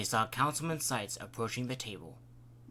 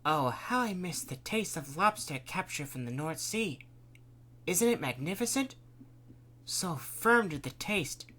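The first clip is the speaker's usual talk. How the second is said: higher, bright delighted gushing about lobster; cheerful tone; 5 semitones higher than usual. Acted. Dorothy reminiscing over dinner to the table, cheerful. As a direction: savor every word happily. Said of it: "In a more cheerful tone".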